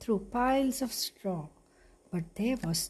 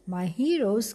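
joyful cry. Acted. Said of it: "cried Cinderella".

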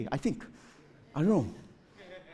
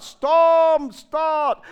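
higher, louder commanding call to the storm; mock command; 9 semitones higher, 6 dB louder than usual. Preacher playing Jesus commanding a storm, mock command. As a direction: bark it like a showman ordering the weather. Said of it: "you command the storm to start".

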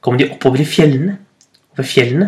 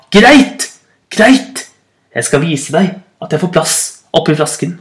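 angry genie. Acted. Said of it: "begynte å bli sintere". (sint og fornærmet ånd)

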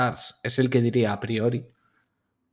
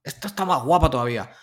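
smug greedy company voice; 3 semitones higher, faster than usual. Retold or imitated. Mocks company reselling the game.

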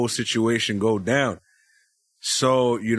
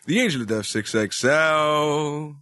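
ring announcer; much slower than usual. Acted.

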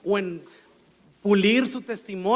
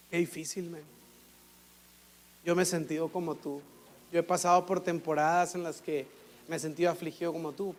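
soft, quiet words of comfort to a hurting friend; tender, soft-spoken empathy; gentle comfort; 4 semitones lower, 5 dB quieter than usual. Retold or imitated. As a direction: hush it down and console them like a friend. Comforting someone who is suffering.

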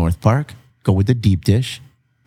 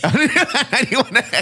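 radio jingle voice; 13 semitones higher, much slower than usual. Acted. Station jingle style drop.

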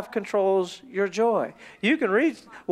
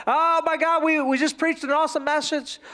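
hammed-up high enthusiasm; excited; 4 semitones higher than usual. Preacher after a great message, excited. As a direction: gush as if on a high. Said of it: "where their emotions is".

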